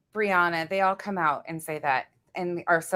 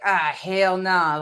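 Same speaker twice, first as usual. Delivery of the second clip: slow hell nah; much slower than usual. Retold or imitated. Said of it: "the moment I do say".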